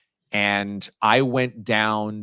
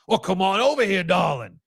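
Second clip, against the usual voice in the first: charming Coach O voice; 7 semitones higher than usual. Retold or imitated. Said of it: "I come by with a pretty girl".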